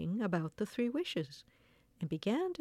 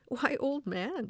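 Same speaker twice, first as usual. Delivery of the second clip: slow, higher-pitched astonishment; surprised cry; 6 semitones higher, slower than usual. A narrator's reading. Old woman startled at her husband, crying out in surprise. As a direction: draw it out in storybook surprise. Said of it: "was very much surprised".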